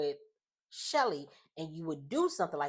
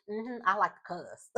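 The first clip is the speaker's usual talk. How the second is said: imitated country accent, a little higher; 4 semitones higher than usual. Daughter talking to her mom, in an imitated country accent. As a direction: put on a playful country twang. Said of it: "all you heard was that country accent".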